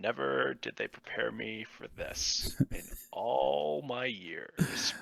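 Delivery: grumbling voice. Player in a D and D game speaks in character, muttering under breath. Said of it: "I just say under my breath".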